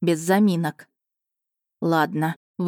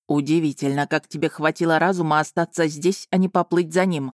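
sarcastic jab; 2 semitones lower than usual. Acted. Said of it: "язвительную фразочку".

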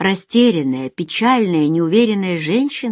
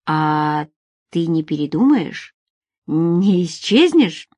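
hesitant, mildly worried asking; a touch of worry, pausing between questions; anxious; slower than usual. Acted. Alex looks back at Nadezhda, afraid she'll vanish, mildly anxious. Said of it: "он встревоженно оглянулся".

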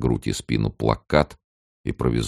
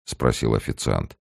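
usual speaking voice

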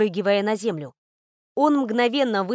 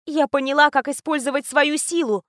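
smiling exclamation; 4 semitones higher than usual. Acted. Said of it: "воскликнула с улыбкой на губах".

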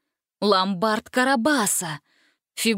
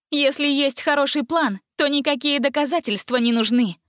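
determined; 6 semitones higher than usual. A narrator's reading. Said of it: "решительно ответила его сестра".

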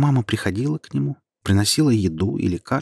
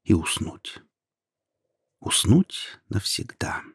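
whisper; slower than usual. A narrator's reading. Sleepy closing whisper.

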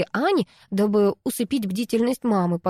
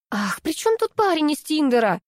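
exasperated outburst, pitched higher; angrier friend; 8 semitones higher than usual. A narrator's reading. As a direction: snap back, more annoyed. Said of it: "Пуще прежнего рассердилась Анаит".

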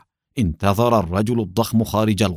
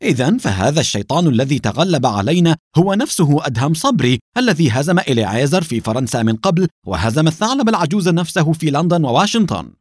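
raised, higher shout of disbelief; 5 semitones higher, 4 dB louder than usual. Acted. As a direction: call it out loud and high. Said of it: "ويصيح".

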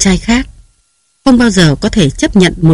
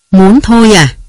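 cold sneer; 3 semitones higher, 4 dB louder than usual. Acted. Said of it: "Bá Nam cười lạnh".

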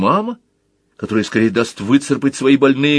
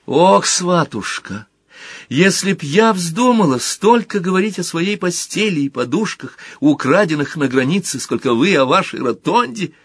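mother's complaint; 8 semitones higher than usual. Retold or imitated. Mother complains to the baker woman.

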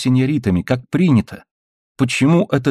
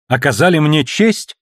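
angry cry; 6 semitones higher than usual. A narrator's reading. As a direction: fling his words back in outrage. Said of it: "крикнула она гневно, чуть не плача". (гневный выкрик, чуть не плача)

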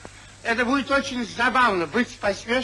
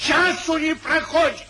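angry shout; 6 semitones higher than usual. Acted. Irritated Sir Peter shouts his complaint at friends. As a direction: bark out часу not a single hour.

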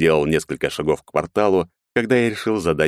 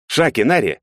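sharp, louder tense call to comrades; tense raised call; 9 semitones higher, 4 dB louder than usual. A narrator's reading. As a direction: call them urgently, tensely. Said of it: "напряжённо произнёс я".

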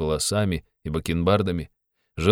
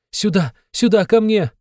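high, loud, urgent plea; Sonya begging; 14 semitones higher, 5 dB louder than usual. A narrator's reading. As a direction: beg them urgently to follow. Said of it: "умоляла Соня". (высокая громкая мольба)

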